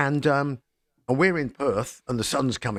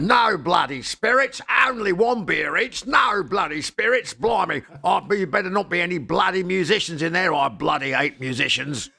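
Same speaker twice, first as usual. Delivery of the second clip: comedy Australian; 7 semitones higher, 3 dB louder than usual. Retold or imitated. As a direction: bellow the rules in a hammed-up Australian accent. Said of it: "absolute comedy Australian".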